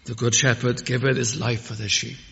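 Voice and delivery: hushed, thoughtful recital; quiet, reflective quote. Acted. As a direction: draw them close with "The good shepherd giveth". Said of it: "Ah, note these words".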